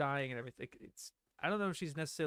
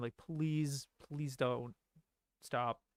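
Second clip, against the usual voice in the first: put-on emotional pleading, slower pace. Describing how she sounds when baring her heart, imitating an emotional plea. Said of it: "she just sounds way more like emotional".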